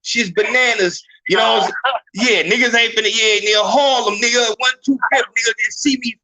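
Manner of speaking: high-pitched, put-on New York street accent; hammed-up Harlem New Yorker, riffing in bursts. Man doing New York on request for the room, exaggerated New York accent. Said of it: "Do the New York accent".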